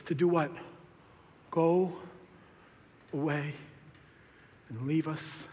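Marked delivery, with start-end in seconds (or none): 1.5-5.5 dwindling quiet request; fading plea. Retold or imitated. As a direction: trail off much softer.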